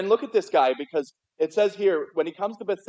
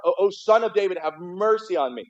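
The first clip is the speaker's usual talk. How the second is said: mock yell; 3 semitones higher than usual. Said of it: "he yells out even more".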